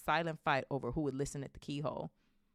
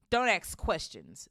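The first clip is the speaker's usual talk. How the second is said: loud, drawn-out snap; slow, forceful scolding order; snapped; 3 semitones higher, 8 dB louder, slower than usual. A narrator's reading. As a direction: snap it with weight on each word. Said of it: "snapped Uncle".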